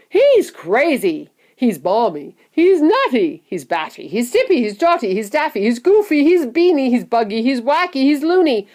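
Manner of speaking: chorus of loud, high, alarmed cries; frightened shouting. A narrator's reading. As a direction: hurl out each accusation in alarm. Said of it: "chorus of frightened shouting".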